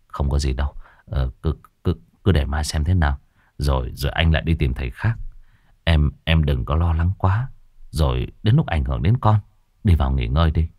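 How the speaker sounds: a lightly voiced husband, soft and low; calm her down though he is shaken; reassuring. Husband softly reassures his frightened wife.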